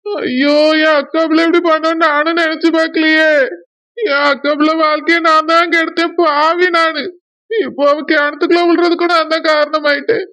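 tearful, self-blaming lament; crying. Acted. Uncle blaming himself for his niece's fall, crying. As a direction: lament with a touch of a sob. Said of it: "அழாதீங்க".

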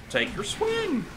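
high taunting call into a cackle; taunt then laugh. Real, not acted.

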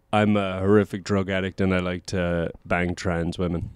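low, slow send-up of a friend; mocking impression. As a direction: imitate your friend's confession, slow and low. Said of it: "you're an impression of me now".

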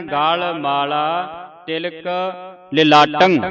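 slow ਗਲ ਮਾਲਾ, ਤਿਲਕ ਲਿਲਾਟੰ, each word separate; model recitation. Shown as a demonstration. Teacher gives students the line, slow careful pronunciation. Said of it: "ਇਸ ਨੂੰ ਉਚਾਰਨ ਕਰਨਾ ਹੈ".

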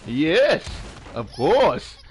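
laughing through the words. Real, not acted. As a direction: laugh as you answer. Laughing while answering.

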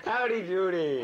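drawn-out slow call of discovery; triumphant guess. Real, not acted. Player shouts the solved charades answer, triumphant.

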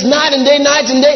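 rising fervour. Acted. Preacher quoting Jesus, raised.

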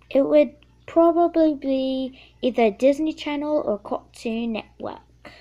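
a kid's playful attempt at a British accent; lightly faked British accent, casual; put-on British accent. Answering Q&A questions for her video, in a playful British accent. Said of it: "How about I talk the rest of this video in British?".

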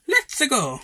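high, loud hype; fired up and eager; excited. Real, not acted. Game starting up.

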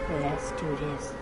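deep, deliberate pump-up; low slow psych-up. Real, not acted. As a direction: drag it out low like a movie hero. Streamer hyping himself up.

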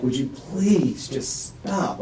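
slow, pleading question; tired begging. Retold or imitated. Man recalling asking his ex-wife to stop, slow pleading. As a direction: beg her to stop, dragging the words. Retold begging during the fight.

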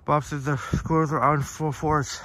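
panting while jogging; talking between breaths on a run. Real, not acted. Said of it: "Sorry, I'm out of breath here".

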